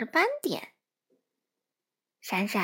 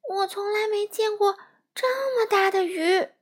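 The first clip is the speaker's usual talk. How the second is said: high, louder amazed cry; astonished exclamation; 9 semitones higher, 4 dB louder than usual. Acted. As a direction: gasp it out in wonder. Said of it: "闪闪惊呼一声".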